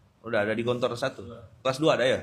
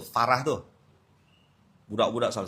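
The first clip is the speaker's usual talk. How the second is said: ordinary talk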